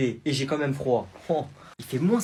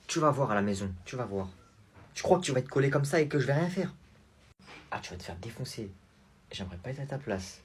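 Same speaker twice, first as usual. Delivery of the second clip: low menacing threat; 3 semitones lower, 3 dB quieter than usual. Acted. Threatening the child quietly.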